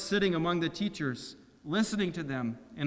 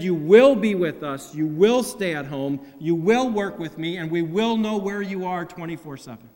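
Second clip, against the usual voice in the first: stern father; 6 dB louder than usual. Pretend. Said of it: "Joseph dragged him out of the temple".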